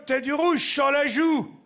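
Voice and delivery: calls out to her friend; blonde's shout. Acted. Blonde shouting to her friend.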